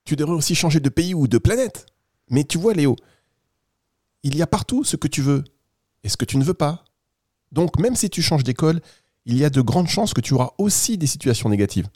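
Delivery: lightly voiced kindly storybook squirrel; friendly squirrel. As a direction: play a helpful little animal reassuring a child. Plays Noisette the squirrel. (écureuil bienveillant, à peine joué)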